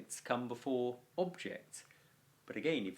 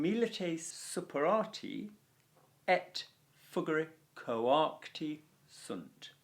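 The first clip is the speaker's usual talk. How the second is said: slow stylish reading; 3 semitones higher, slower than usual. Shown as a demonstration. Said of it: "just a little bit more stylish".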